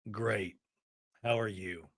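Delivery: low, soft, sighed answer; sighing reply. Retold or imitated. Jared answers Brittany after taking off his jacket, sighing. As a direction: let it out on a heavy sigh. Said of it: "he sighs and he goes".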